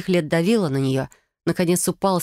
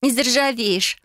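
lightly higher, smiling reassurance; 7 semitones higher, slower than usual. A narrator's reading. Sister teasing the cat handle, smiling. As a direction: say it with a smile. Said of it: "улыбнулась Фелиция".

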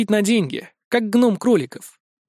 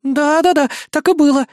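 higher, louder scared insistence; frightened repeat; 9 semitones higher, 6 dB louder than usual. A narrator's reading. Scared elf girl repeating her lie to the gang leader. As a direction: insist too eagerly out of fear. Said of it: "испуганно повторила Рина".

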